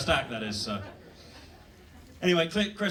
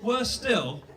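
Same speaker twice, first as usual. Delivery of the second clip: mock outrage; 9 semitones higher, much slower than usual. Mock outrage at English food.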